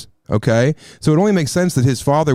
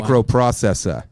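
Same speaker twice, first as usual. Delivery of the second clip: lightly imitated Boston accent; 3 semitones lower than usual. Shown as a demonstration. Showing co-host an American accent, light Boston imitation. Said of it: "That's Boston".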